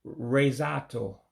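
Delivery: slow Resato, resort in an Igbo accent. Shown as a demonstration. Teacher showing resort as Igbo, slow Igbo-accented Resato. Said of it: "just like saying it in English with an accent".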